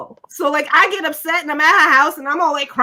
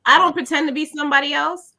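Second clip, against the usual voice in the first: measured, reconsidering, left open; second thought. Retold or imitated. Guest stops and thinks it over, measured reconsidering. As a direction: say it thoughtfully, rising toward a coming "but". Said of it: "I stopped and I thought".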